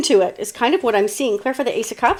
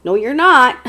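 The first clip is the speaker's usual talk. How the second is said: usual speaking voice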